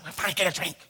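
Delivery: mild mock yelling whine; retold loud whine. Boy getting loud at mom in the mall, mock whine. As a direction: lightly act a child getting loud. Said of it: "I just get loud".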